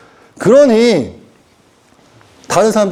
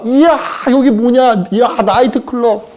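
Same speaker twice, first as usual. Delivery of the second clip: amazed at the nightclub; 4 semitones higher, slower than usual. Acted. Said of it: "한 명의 천사는 이러고 있을 거야".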